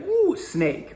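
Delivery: high, startled mock gasp at a snake; mock fright. Snake phobic sees a snake, high mock fright. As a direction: squeal it like a scared person. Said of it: "you'll still be like".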